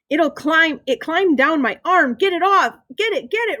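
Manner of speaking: put-on high, frantic child's cry; panicked kid. A narrator's reading. Ryan dances around after the mouse climbed him, panicked. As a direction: plead to get it off.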